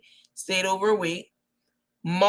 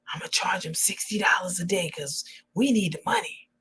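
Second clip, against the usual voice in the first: hushed mock whisper; half-whispered scheming woman; 5 dB quieter than usual. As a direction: whisper the plan like a secret. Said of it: "she said".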